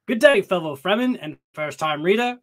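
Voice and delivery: a light, hammed-up Australian twang on the greeting; mock Australian accent. Reading an Australian listener's email in a mock Australian accent. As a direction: greet the fans like a cheerful Aussie, half-joking. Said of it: "I'm sorry if I'm butchering your accent".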